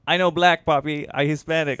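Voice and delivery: put-on light Hispanic accent, girlfriend quote. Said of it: "imagine if I had that accent".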